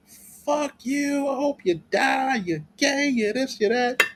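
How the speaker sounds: high whiny mock voice; mocking angry women. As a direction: squeak it like bitter haters. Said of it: "And they was like".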